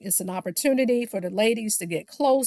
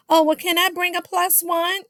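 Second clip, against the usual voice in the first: mock sweet Tisha; 8 semitones higher than usual. Mocking passive-aggressive Tisha.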